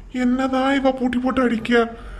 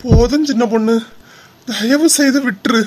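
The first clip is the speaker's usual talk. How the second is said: mock pained wailing; 5 dB louder than usual. Husband fakes crying out in pain.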